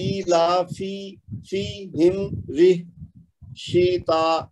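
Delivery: slow, each kasra given a clear ee sound. Shown as a demonstration. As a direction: sound out ایلافی and شیتا with a long ee on each kasra. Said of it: "جہاں جہاں بھی زیر ہے نا".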